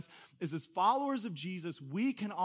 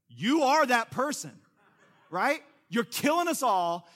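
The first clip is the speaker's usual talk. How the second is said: laughing; 5 semitones higher, 9 dB louder than usual. Real, not acted.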